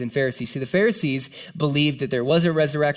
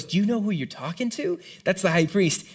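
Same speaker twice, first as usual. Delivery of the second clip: higher-pitched, disbelieving challenge; incredulous rebuke; 5 semitones higher than usual. Acted. Bystander warning Paul about the high priest, incredulous. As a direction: question him in mild shock.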